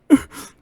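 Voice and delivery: short imitated teary snuffle; tearful sniffle. Punched classmate gets up in tears, mock tearful snuffle. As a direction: mimic a punched kid snuffling. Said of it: "you see all the tears in his eyes".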